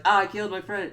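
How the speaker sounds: high, loud startled gasp of guilt; sudden realization. Retold or imitated. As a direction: hit it as the shock lands. Realizes he killed friend.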